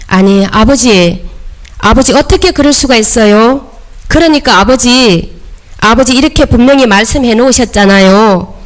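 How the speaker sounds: mildly confrontational plea, pitch lifting as it goes; arguing with Father. Shown as a demonstration. Believer reminding God the Father of his promise, arguing. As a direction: protest like a child holding Father to his word. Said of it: "이렇게 막 따지듯이 해보시기 바랍니다".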